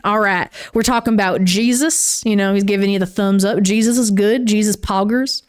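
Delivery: lightly put-on Southern accent; a hint of a Southern drawl, half joking. Shown as a demonstration. Vlogger joking her way through a country starter pack, faint Southern accent. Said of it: "I should probably talk in a Southern accent".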